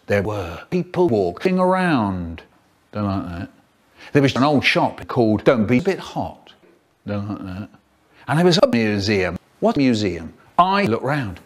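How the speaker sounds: choppy sentence-mixed clips; words cut and stitched from different takes; spliced words. Acted. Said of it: "faster than science sentence mixing".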